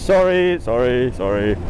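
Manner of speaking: fading repeated sorry; repeated sign message. Retold or imitated. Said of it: "Just repeating it over and over".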